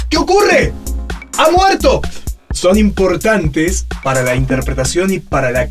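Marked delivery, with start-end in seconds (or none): 0.1-2.0 high, loud alarmed cry. Shown as a demonstration. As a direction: gasp it out in alarm. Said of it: "Estas pausas que parecen como".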